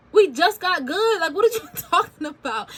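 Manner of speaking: half-laughing, can't believe it; retold stunned disbelief. To her mom after hearing her dad may die, stunned disbelief. Disbelief at mom's grave news.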